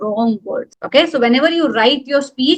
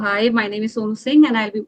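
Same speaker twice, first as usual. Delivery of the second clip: unconfident; 3 semitones lower, faster than usual. Shown as a demonstration. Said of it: "do I sound confident? No".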